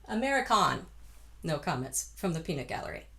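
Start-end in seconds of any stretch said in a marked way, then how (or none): 0.1-0.9 "American" ending sung as "con"; narrowed "American"; con vowel. Shown as a demonstration. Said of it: "We're gonna go con".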